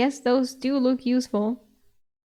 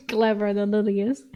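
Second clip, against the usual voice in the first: ordinary delivery, nothing marked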